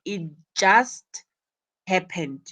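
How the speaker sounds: "just" lifted, pause, then a falling "happened"; stress on "just". Shown as a demonstration. Teacher explaining recent incidents to students, stress on "just". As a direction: hit "just", hold a beat, then let "happened" drop. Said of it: "Notice the stress on just".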